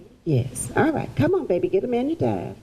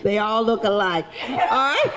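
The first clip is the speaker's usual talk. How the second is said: laughing. Real, not acted. Joke to audience, laughing.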